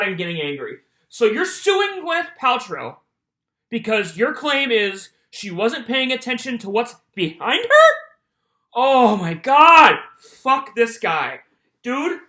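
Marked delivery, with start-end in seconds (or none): 1.1-7.9 can't believe the claim, yell it; incredulous. Real, not acted. 8.7-11.4 loud, slow, exasperated; fed up. Real, not acted. Angry about the plaintiff.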